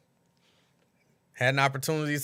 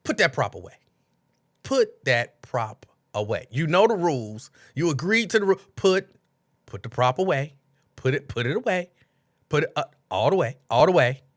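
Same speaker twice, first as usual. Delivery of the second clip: mock moderator; 4 dB louder than usual. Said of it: "she just called it a prop".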